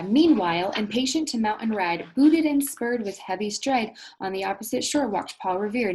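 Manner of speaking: reading the stanza aloud with lift; poem reading. A narrator's reading. Teacher reads the poem stanza to her class, lively. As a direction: read the verse to the class with some energy.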